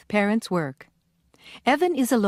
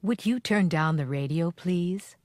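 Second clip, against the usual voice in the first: polite request; 2 semitones lower than usual. Shown as a demonstration. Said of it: "Write P for polite, I for impolite".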